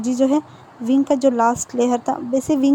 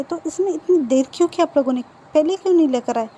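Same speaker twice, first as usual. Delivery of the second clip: higher-pitched questioning of the delay; lightly acted reproach, pitched up; mildly reproachful question; 4 semitones higher than usual. Mr Lan asks why they took so long, mildly reproachful.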